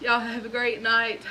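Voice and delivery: slow goodnight through laughter; laughing. Real, not acted. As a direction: laugh while saying goodnight. Laughing sign-off after winded.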